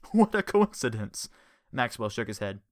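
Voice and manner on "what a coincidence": surprised. Acted. Amazed remark in story.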